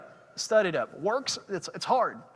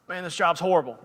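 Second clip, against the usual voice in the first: louder, heated rant over the walkie-talkie; angry complaint; 3 semitones higher, 4 dB louder than usual. Retold or imitated. Angry worker ranting to supervisor on walkie-talkie, heated complaint. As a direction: vent to the boss about the awful job. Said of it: "I got so mad about this job".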